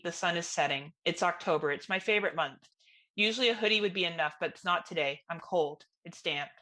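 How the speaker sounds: measured first-person story reading; story narration. A narrator's reading. Reading a graveside story to co-hosts, measured narration. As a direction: read it evenly, letting sentences settle at the ends. Reads own story aloud.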